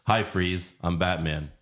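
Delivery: low, underplayed mock superhero; worst Batman ever. Comic mocking the worst Batman ever, low and underplayed. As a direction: say it low with no heroic effort. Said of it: "the worst Batman ever".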